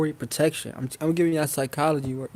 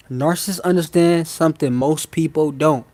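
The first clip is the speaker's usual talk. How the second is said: said real slow. Shown as a demonstration. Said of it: "I'ma say this real slow".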